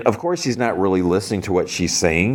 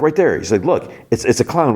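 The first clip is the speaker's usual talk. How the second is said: higher-pitched, insistent retold plea; urgent pointing out; 7 semitones higher than usual. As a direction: make them see what you see. Will urgently points out the clown.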